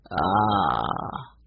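deep, low-pitched "ahh". A narrator's reading. Man studying the mask Benny lifts up, low "ah". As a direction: draw out a low, considering "ah".

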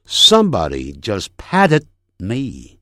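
"patted" with unreleased d, slight stop before "me"; stopped final d. Shown as a demonstration. Teacher giving example sentence, "patted" stopped on silent d. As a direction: slowly, hold the d of "patted" before "me". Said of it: "停顿".

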